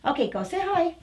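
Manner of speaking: usual speaking voice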